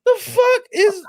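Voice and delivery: high, slow stunned question; shocked disbelief. Real, not acted. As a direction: rise up high in pure disbelief. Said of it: "reacting in disbelief".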